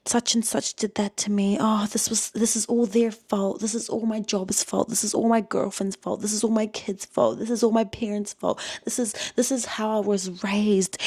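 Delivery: half-hearted poor-me voice; mock whiny victim. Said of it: "be like".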